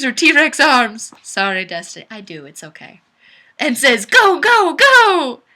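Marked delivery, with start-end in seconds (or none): 4.0-5.4 high loud cheer breaking into laughter; cheering shout. Acted. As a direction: cheer her on at full volume. Destiny cheering in the song.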